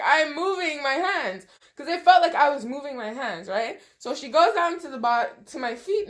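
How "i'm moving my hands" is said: insisting. Retold or imitated. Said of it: "I'm like".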